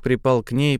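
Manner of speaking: plain reading voice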